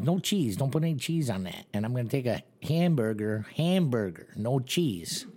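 squeaky little dude ordering; high timid mock voice; high mimicked little guy. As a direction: pitch it up as the timid coworker. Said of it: "He goes".

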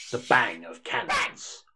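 bang. Acted. Voicing sound words dramatically.

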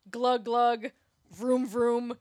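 a hint of Mel Gibson, ending in a whoop; Mel Gibson impression. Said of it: "in his Australian accent, which I can't do".

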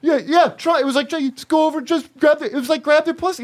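high, breezy rock-band bro voice; mimicking a handsome rocker giving advice; band guy impression. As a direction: toss off cocky pickup advice. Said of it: "he goes".

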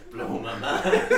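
high, loud, slow, collapsing into laughter; laughing echo. Real, not acted. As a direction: squeal it out while cracking up. Echoes the joke while cracking up.

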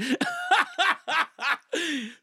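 real high-pitched laughing fit. Real, not acted. Comedian tickled by his British impression, high laugh. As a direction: cackle long and high.

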